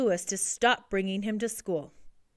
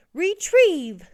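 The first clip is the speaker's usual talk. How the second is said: high, loud pet command; calling a command; 9 semitones higher, 8 dB louder than usual. A narrator's reading. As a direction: call it out to a trained animal. Lewis commands his trained pet.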